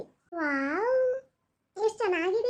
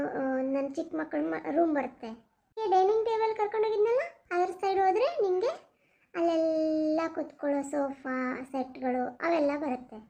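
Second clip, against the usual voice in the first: calm house owner; 5 semitones lower than usual. Acted.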